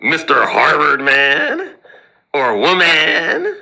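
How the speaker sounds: mocking taunt. Taunting Harvard grads.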